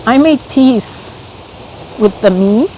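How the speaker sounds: halting, with real feeling creeping in; a touch overcome, picking through the words; getting emotional. Real, not acted. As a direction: pause mid-sentence as emotion catches you. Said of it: "Sorry, I'm getting emotional".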